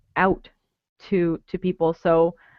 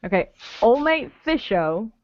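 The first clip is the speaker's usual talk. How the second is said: Australian accent. Shown as a demonstration. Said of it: "your Australian word".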